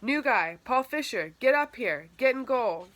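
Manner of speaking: loud and high call across the field; coach yelling. A narrator's reading. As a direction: yell it down to the far goal. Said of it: "The coach yelled down".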